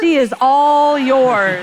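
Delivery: slow, loud, laughing send-off; hammed-up laughing goodbye; laughing handoff. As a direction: hand the baby over with a laugh, dragging it out. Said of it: "I remember saying as I was passing him".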